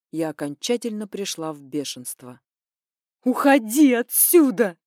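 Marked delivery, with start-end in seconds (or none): 3.2-4.8 loud, slow snarl; growled order. A narrator's reading. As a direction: growl him out of the room. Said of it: "зарычала я на него".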